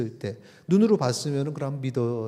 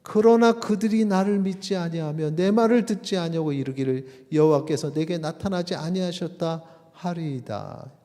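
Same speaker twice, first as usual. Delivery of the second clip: doubting Moses; 7 semitones higher, 5 dB louder than usual. Acted. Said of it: "모세가 대답하여 이르되".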